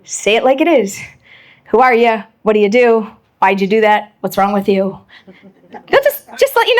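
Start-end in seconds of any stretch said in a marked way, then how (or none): 1.7-4.8 blunt direct questions. Retold or imitated. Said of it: "are very direct".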